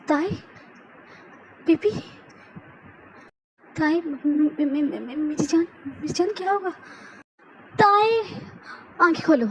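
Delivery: begging her to wake up; husband begging his unconscious wife to open her eyes; terrified pleading. Acted. Jungkook sees blood, she's unconscious.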